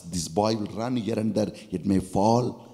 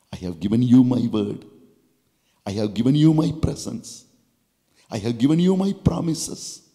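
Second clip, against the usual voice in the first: God's voice; 4 dB louder than usual. Acted. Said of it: "God is also telling you".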